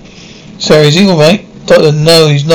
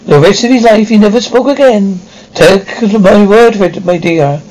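put-on higher-pitched, lilting old Scot spinning a tale; old Scottish storyteller; 4 semitones higher than usual. McCrellan recounts a disappearance on the moor to Sarah, as an old Scottish storyteller. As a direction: tell it as an old Highlander's eerie yarn.

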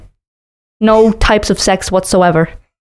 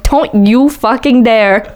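mock yell; 2 semitones higher, much slower than usual. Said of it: "I started screaming at you".

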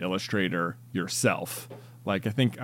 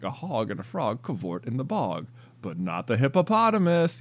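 soft read with rising punchline; storybook reading; 3 dB quieter than usual. Shown as a demonstration. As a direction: read the rhyme, lift the last line. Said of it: "just like that".

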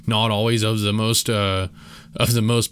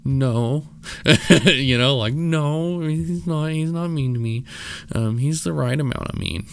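a higher, awkward voice for the wife; socially awkward wife; 5 semitones higher, slower than usual. Retold or imitated. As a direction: fumble the answer, pitched well up. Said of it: "because she's socially awkward".

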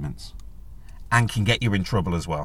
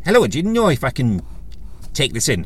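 put-on old Irish lady's lilting Irish accent, raised higher; 5 semitones higher than usual. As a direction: imitate an elderly Irish woman in an Irish accent. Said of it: "Apologies for the Irish accent".

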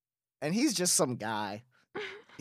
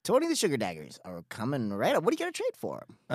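cartoon character voice; 3 dB quieter, faster than usual. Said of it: "the guy that sounds like a cartoon character".

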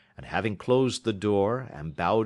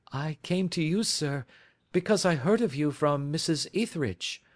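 Mary Sutherland voice; 9 semitones higher than usual. A narrator's reading. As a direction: lift into Mary's earnest, simple voice.

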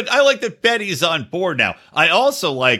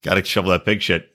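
gruff mocking voice; 9 semitones lower than usual. Sarcastic voicing of the husband.

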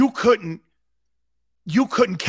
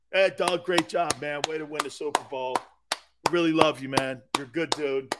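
friendly greeting; 3 semitones lower than usual. Pretend. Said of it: "how would I act with Doug Peterson".

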